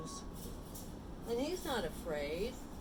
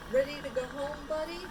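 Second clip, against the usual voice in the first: lightly voiced owner, higher rising question; a hint of a friendly owner's higher-pitched call; owner calling dog; 5 semitones higher, 3 dB louder than usual. A narrator's reading. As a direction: call your dog to go home. Owner calls his dog.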